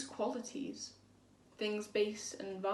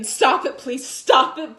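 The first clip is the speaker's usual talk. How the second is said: desperate scream, much higher and louder; 5 semitones higher, 15 dB louder than usual. Retold or imitated. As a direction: scream at the boys to stop. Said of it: "and I started screaming".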